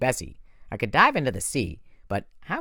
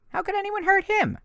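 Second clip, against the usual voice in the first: protective outburst. A narrator's reading. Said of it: "I said".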